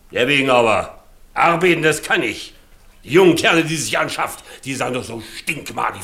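put-on old servant proudly insisting he can work; proud boast. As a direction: boast of what you can still do.

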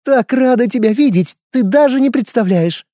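purring femme fatale. A narrator's reading. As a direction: purr it, sultry and teasing. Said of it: "промурлыкала девушка". (мурлыкающая роковая женщина)

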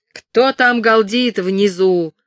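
loud, slow call down from the window; guard's shout. A narrator's reading. Guard leans out and shouts down at travellers, loud and slow. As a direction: bellow down at the crowd below. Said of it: "выкрикнул стражник".

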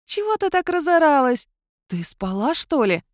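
a small grumpy spirit, freshly woken; high-pitched sleepy cat-mouse spirit. A narrator's reading.

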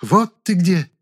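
high, loud indignant shout at the doorway; indignant yell. A narrator's reading. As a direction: burst in yelling with outrage. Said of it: "возмущённо заорала она прямо с порога".

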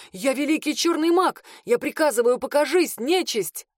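high commanding yell. A narrator's reading. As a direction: bellow the summons. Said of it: "орал парень".

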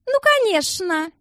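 slow, high venomous sneer. A narrator's reading. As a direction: drip poison on every syllable. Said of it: "ядовито заметила Алсана". (ядовитая насмешка, медленно и высоко)

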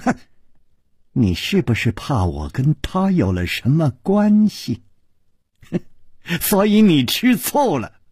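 needling, laughing into the last jab; mischievous teasing. Acted. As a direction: sly taunt with a chuckle. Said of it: "不怀好意地笑着说".

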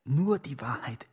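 hushed, breathy swearing of the truth; whispered oath. Acted. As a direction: whisper it like a solemn vow. Whispered oath before the court. (geflüstert)

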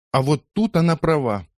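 high, loud exclamation from the crowd; exclaiming. A narrator's reading. Crowd women exclaim against the girl, in high loud voices. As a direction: cry out in agreement. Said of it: "воскликнули сразу несколько женщин".

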